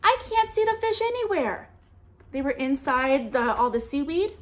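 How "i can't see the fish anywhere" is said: higher voice, acting puzzled; storyteller pretending she can't see the fish; mock puzzled reader. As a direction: play at not finding the fish. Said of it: "I said".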